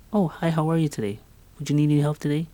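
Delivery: high, fast, over-sweet clerk voice; squeaky fake greeting. Retail worker forced by supervisor to greet, hammed-up squeaky voice. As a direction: ham up the forced customer-service cheer. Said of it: "a squeaky voice that was not mine".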